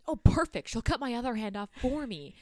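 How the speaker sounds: high, loud burst of mock delight. Man seeing his helper show up, delighted. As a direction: pounce on it like great news. Acted delight at her showing up.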